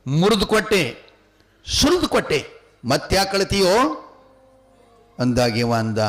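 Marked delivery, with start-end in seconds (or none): 0.1-3.8 exasperated scolding. Acted. King scolds the endlessly crying child.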